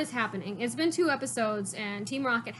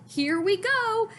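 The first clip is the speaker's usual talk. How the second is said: higher, slow announcing voice; slow the words right down; mysterious voice; 9 semitones higher, 5 dB louder, much slower than usual. Retold or imitated. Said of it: "I heard a voice that said".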